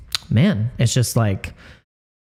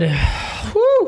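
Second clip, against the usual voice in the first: emotional exhale. Real, not acted. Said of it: "I apologize, guys".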